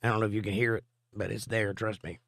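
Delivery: hoarse, strained laryngitis voice; strangled, fading rasp. Real, not acted. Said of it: "My voice is like I'm being strangled".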